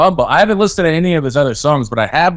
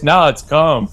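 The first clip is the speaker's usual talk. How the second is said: laughing mock denial; slower than usual. Bit about crying at concert.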